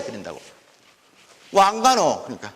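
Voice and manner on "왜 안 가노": Gyeongsang dialect. Shown as a demonstration. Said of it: "경상도 토속자리".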